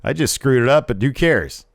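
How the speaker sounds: mock cocky "so what" voice; lightly acted defiance; imitated attitude. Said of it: "has a sort of, uh, attitude".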